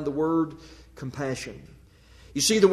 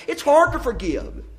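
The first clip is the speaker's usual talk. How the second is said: higher, hammered home from the pulpit; emphatic refrain; 6 semitones higher than usual. Acted. Preacher declaring to the congregation, emphatic and higher. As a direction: land it like a verdict. Loud refrain, later whispered.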